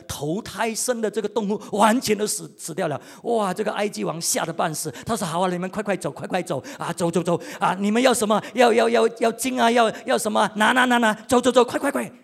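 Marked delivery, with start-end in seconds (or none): 5.3-12.1 louder, rushed, flustered pleading; panicked Pharaoh. Retold or imitated. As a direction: shoo them out in a frightened hurry. Frightened Pharaoh hurries Israel out. (法老惊慌地催促快走)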